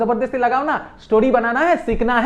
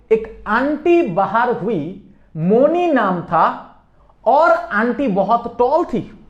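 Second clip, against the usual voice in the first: very slow, drawn-out telling; slow down so every word sticks; slow storytelling; 3 semitones higher, much slower than usual. Shown as a demonstration. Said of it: "समझ में आया?".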